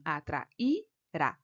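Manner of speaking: Atrairá slowly split, the I standing alone; syllable by syllable. Shown as a demonstration. Teacher showing the hiatus to candidates, syllable by syllable. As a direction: say Atrairá drawn out in separate syllables. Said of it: "O I, ele fica sozinho aqui".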